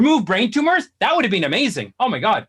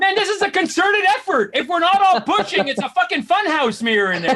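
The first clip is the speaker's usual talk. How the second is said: exasperated complaint; 4 semitones higher than usual. Acted. Acted complaint inside revolving door.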